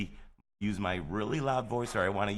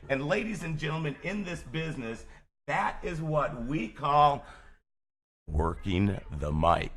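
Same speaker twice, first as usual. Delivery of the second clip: showman announcer; 6 semitones higher than usual. Real, not acted. Host proclaims on air.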